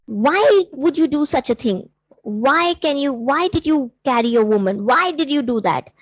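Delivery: retold frustrated rebuke with emphatic whys; mildly indignant, imitating a frustrated monk; mildly angry monk. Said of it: "really angry, very, very angry".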